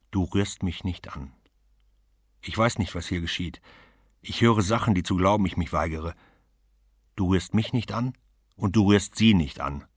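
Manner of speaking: firm, rising warning; fierce refusal. Acted. Woman forbids him to touch her or her child, fierce. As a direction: keep him off, trembling but firm.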